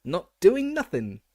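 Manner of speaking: mischievous poltergeist cackling down at a teacher. A narrator's reading. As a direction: taunt them like a gleeful imp. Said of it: "cackled Peeves".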